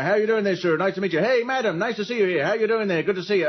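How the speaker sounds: lightly voiced American comic greeting punters; chatty mock-American meet-and-greet; a hint of a glad-handing stand-up; American comedian. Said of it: "he'd be going round everybody individually".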